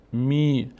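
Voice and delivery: می with a sustained "ee"; long vowel. Shown as a demonstration. Teacher showing that mim takes the ee sound, long vowel. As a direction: stretch the ee in می.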